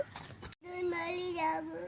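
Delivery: slow, soft, drawn-out whine; crying. Pretend. Child wanting to go to grandpa's house, crying. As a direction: wail the words slowly and quietly. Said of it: "তুমি কাঁদছো কেন?".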